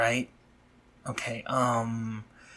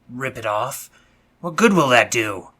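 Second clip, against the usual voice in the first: exasperated; 9 dB louder than usual. Acted. Stopping her tearing her wing.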